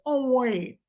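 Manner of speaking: lightly imitated creepy movie villain; a hint of a weird villain voice; Buffalo Bill. Fan recalling Ted Levine's weird-voiced villain, light imitation. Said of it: "Remember when he's Buffalo Bill and he goes".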